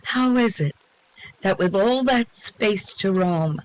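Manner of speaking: measured verse reading with pauses between phrases; poem recital. Acted. Reader shares a cosmic poem with the group, recited. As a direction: recite it with lifted openings on the questions.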